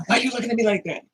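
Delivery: high, incredulous mock whine; imitating someone high, acting wronged; mock addict voice. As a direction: play the addict acting innocent. Mocking a drug user's reaction.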